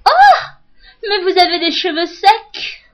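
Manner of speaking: high, shocked hairdresser voice; a hammed-up shocked hairdresser; mock hairdresser.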